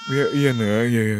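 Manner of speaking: put-on loud, urgent reassurance to a crying child; hurried soothing. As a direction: rush in to comfort the baby. Father rushes to crying baby. (menenangkan anak dengan tergesa)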